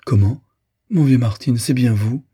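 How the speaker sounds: put-on a girl suddenly recognizing an old friend; surprised recognition. Girl spotting an old family friend, delighted surprise.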